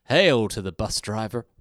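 drawn-out, slow imitated line reading; Principal Skinner. Echoing the co-host's favourite Skinner line, imitated grand delivery. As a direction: stretch it slowly, selling the bus driver as all-important. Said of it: "He sells the bus driver as being".

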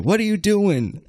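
high-pitched imitation of an accusing sister; retold confrontation. Sister coming out of nowhere to confront him, accusing. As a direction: demand it, pitch jumping up.

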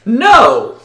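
high, loud hick voice snapping a flat no; swamp local blurts no. Acted.

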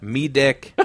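Kiwi vowel, deck said as dick; New Zealand accent quoting a coworker. Retold or imitated. Friend mimics New Zealand coworker's deck, Kiwi accent. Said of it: "That's Reese Darby, dude. That's how he sounds".

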